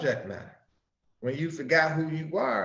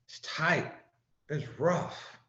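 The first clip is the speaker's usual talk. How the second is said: a hint of a tired toiler's voice; weary working man; 3 semitones lower than usual. Preacher voicing poor toilers complaining, lightly weary. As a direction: lightly voice a worn-out worker. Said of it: "the common people would say".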